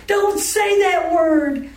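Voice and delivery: high, loud, drawn-out protest; imitated scandalized mother. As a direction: imitate an upset mother, stretching every word. Mother forbids the word, retold.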